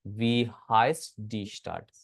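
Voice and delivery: slow model reading, हाइस्ट as one syllable with the eye sound; हाइस्ट in one breath. Shown as a demonstration. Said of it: "ए की सांस में पढ़ेंगे हाइस्ट".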